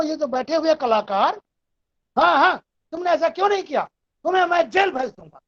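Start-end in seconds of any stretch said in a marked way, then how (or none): 2.2-5.4 brisk, higher-pitched police threat; threatening policeman. Acted. Teacher voices a policeman's line for the chorus, threatening. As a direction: threaten them like a policeman in street theatre. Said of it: "police वाला धमका रहा".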